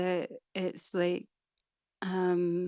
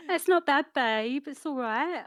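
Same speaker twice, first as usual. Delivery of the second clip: slipping into a higher Essex accent; 5 semitones higher than usual. Real, not acted. Co-host catching herself praising her friend, Essex accent. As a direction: go a bit Essex. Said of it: "Oh, I went Essex there".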